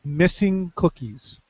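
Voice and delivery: slow, hushed, ominous reveal; slow dramatic tease. Acted. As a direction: drop it slow like big news.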